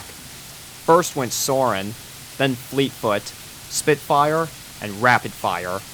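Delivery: ordinary delivery, nothing marked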